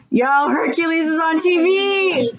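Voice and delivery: gasp, then high excited cry; excited exclamation. Real, not acted. Spotting Hercules on TV mid-chat, real excited outburst. Spots film listing, calls out.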